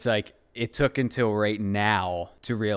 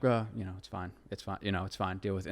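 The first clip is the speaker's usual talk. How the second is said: softer, dismissive self-talk; brushing it off; 6 dB quieter than usual. Retold or imitated. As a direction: imitate shrugging it off under your voice. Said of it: "you just kinda brush it off".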